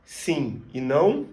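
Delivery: não said with a nasal ow ending; Portuguese sim e não. Shown as a demonstration. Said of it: "You will find in words like".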